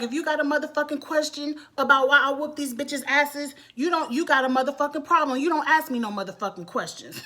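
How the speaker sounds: retold rant, mildly heated. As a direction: rattle off the boss's warning in imitation. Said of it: "She is going on this rant".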